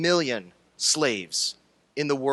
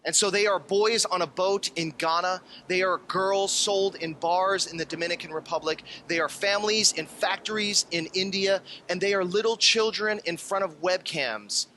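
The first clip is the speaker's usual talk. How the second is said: worked up. Acted. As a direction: let the outrage build. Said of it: "getting really sort of worked up".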